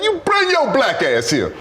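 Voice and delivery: high, slowed, laughing mock mom command; a black mother summoning her son, imitated; imitating mom. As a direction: drag it out like a mother calling a kid. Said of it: "My mom be like".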